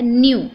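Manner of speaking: "न्यू" said as "nyoo", no K; correct NEW sound. Shown as a demonstration. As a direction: start "न्यू" on N with a Y glide. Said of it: "इसका सही pronunciation बनता".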